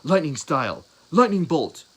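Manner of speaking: loud, high battle cry; yelled attack. Acted. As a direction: call out the special move at full voice. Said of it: "and then he yells".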